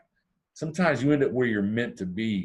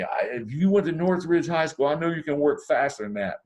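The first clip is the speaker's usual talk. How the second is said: mock yell; 5 semitones higher than usual. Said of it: "He yells at me".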